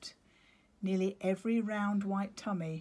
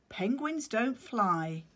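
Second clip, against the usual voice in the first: patient penguin; 4 semitones higher, 4 dB louder, slower than usual. Acted. Claudius correcting chick.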